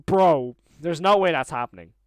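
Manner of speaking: loud, incredulous questioning; stunned disbelief. Real, not acted. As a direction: demand to know if this is real. Stunned, asks if dreaming.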